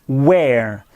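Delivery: where said as one sound "wear"; 1 word where. Shown as a demonstration. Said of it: "Regardez bien la prononciation".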